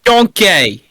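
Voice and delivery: Shrek impression. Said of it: "Just think of Shrek".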